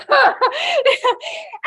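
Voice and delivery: a bright, high burst of laughter. Real, not acted. Telling the audience her therapist story, laughing out loud. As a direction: laugh at your own punchline.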